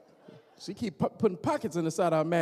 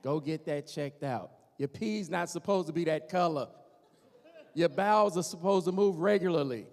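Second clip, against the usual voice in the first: nagging wife; 3 semitones lower than usual. Retold or imitated. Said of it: "somebody in their ear saying".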